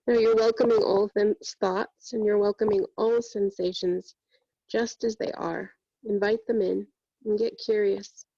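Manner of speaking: even-pitched meditation voice with long pauses; guided meditation. Real, not acted. Yoga teacher guiding students through breath and body scan, meditative. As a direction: guide them inward steadily, leaving long silences between phrases.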